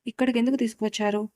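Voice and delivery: quick, grave question; mildly stern, hurried demand; a touch serious. Acted. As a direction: press him, slightly stern. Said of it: "గీత కొంచెం గంభీరంగా".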